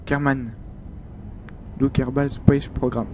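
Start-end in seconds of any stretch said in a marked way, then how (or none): 1.8-3.1 a light mock English accent on the game title. Naming the game Kerbal Space Program in a super English accent. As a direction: say the title the English way, a bit slower. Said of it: "Avec mon super accent anglais".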